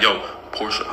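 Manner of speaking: a hushed, half-whispered name; whispering. Retold or imitated. Drunk friend mumbling the name when asked about the girl, hushed. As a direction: mutter the name low and soft, like a secret. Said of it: "He starts whispering".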